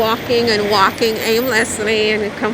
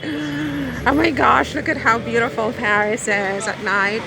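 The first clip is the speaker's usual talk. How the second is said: mock amazement; 2 semitones higher than usual. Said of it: "every time I'm out at night and I'm like".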